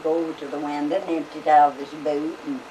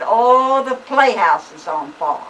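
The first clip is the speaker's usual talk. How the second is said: loud cry of alarm on "Oh"; alarmed call; 5 semitones higher, 7 dB louder, slower than usual. Retold or imitated. Someone at the door shouts to the family that the playhouse is on fire, loud.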